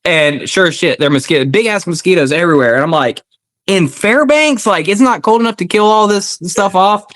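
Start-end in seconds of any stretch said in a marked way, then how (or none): 3.7-7.0 pitched way up in disbelief; can't believe it, voice shoots high; incredulous. Retold or imitated. Veteran recalling huge Fairbanks mosquitoes, high incredulous disbelief.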